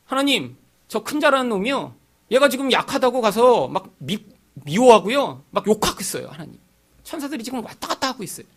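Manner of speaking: put-on high, childlike telling on someone to God; tattling angel. Guardian angel reporting the bully to God, eager tattle. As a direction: run to God and tell on the bully. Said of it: "가서 하나님 얼굴을 보고 다 얘기하고".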